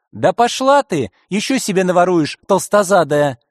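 медленно, громко и выше, с наглостью; швырни ей оскорбление в лицо; грубый выкрик. Acted. Грабитель грубит директрисе. (грабитель хамит директрисе, громким наглым выкриком)

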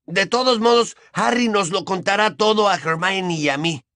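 put-on high-pitched, vehement boy. A narrator's reading. Boy assuring everyone his friend will tell him, vehement. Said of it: "aseguró Ron con vehemencia".

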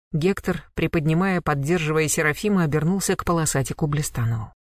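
ordinary delivery

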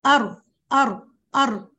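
أر repeated, voiced and a little slow; ra drill. Shown as a demonstration. Teacher drills the ra of الفجر syllable by syllable. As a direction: practise the ra on its own before joining. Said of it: "وأتدرب".

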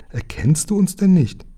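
high-pitched pleading question from a princess; little princess calling out. A narrator's reading. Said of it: "rief die kleine Prinzessin". (kleine Prinzessin, hoch und flehend rufend)

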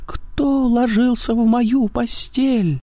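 very high slow squeak; squeaky thin voice. A narrator's reading. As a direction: squeak like a tiny bear cub. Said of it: "запищал тонким голосом".

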